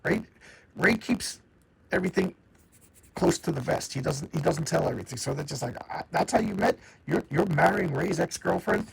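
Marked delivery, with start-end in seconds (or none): 5.9-8.9 higher-pitched retold disbelief; incredulous. Brothers hearing he's marrying Ray's ex, incredulous. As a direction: act out a stunned brother's question. Brothers react to surprising news.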